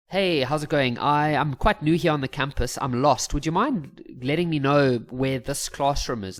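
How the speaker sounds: easy and upbeat, without overdoing it; good, balanced energy. Acted. New student asking a girl for directions, balanced energy. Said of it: "now your energy's good".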